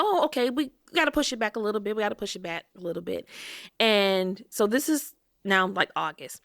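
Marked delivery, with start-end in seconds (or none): 0.0-2.0 fast, brightly higher delay excuse; quick upbeat "push it back"; breezy staff voice. Retold or imitated. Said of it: "they go". 2.0-3.3 fast, softer echo of the excuse; deflated repeat. Retold or imitated. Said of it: "they go".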